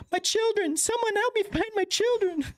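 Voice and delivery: high, frantic calling out; a mother calling for her lost children; desperate calling. Acted. Frightened mother shouting for her missing children, high and frantic.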